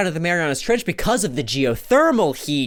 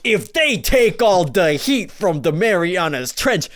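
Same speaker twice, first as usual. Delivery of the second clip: Kevin Costner impression; 3 semitones higher than usual. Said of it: "this is how he sounds".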